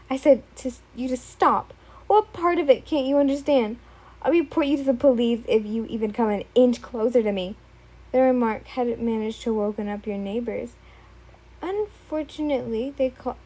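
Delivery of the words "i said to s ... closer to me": louder, firm scared threat; fearful warning. Acted. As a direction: threaten to call the police. Yin threatening police.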